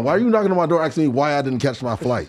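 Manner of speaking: high, loud, breathless disbelief; incredulous excitement. Retold or imitated. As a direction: throw the question back at him, thrilled. Retold reply to Dana White.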